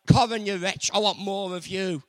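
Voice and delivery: loud scolding, spitting out wretch; mock condemnation. Preacher mocks a condemning God, loud scolding. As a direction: berate the sinner like a harsh judge. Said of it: "It's not condemnation saying".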